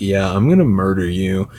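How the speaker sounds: ordinary talk, nothing marked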